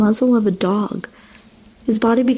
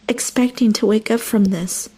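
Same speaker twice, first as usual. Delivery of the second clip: ordinary delivery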